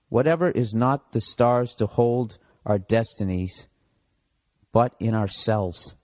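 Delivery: slow, squinting word-by-word reading; slow halting read. Real, not acted. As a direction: read it out slowly as if struggling to see. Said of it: "I can't read this".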